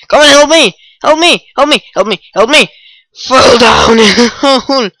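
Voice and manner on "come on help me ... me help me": louder repeated begging; loud help cries; desperate pleas. Real, not acted. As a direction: call out for rescue.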